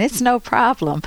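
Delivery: lightly imitated Viennese accent; a hint of a Viennese conductor's accent. Conductor jokes to the audience about the ringing phone, light Viennese accent. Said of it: "He said this in a Viennese accent".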